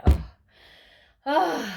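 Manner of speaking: imitated distressed groan; re-enacted groan. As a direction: groan as if seeing an injury. Re-enacting reaction to the mirror.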